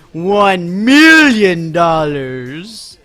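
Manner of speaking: laughing drawl. Real, not acted. Announcing the new keyword to viewers, laughing. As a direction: stretch it out while cracking up.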